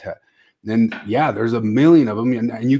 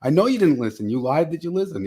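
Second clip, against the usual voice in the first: retold yell, high and loud at first, easing off; mock-yell at the screen, then settle; retold screaming; 5 semitones higher, 4 dB louder than usual. Viewer yelling at podcasters on screen, retold exasperated yell. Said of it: "I'm, like, screaming at the screen".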